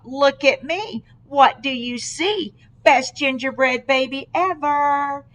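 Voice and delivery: a hint of a proud cookie; boastful gingerbread baby. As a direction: show off a little.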